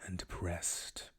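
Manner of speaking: measured, deadpan read-aloud; story narration. A narrator's reading. Narrator reads fan fiction to listeners, measured storytelling.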